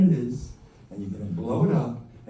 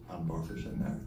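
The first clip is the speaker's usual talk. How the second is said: smug aside; 8 semitones lower, 9 dB quieter, faster than usual. Retold or imitated. Boastful married guy voiced.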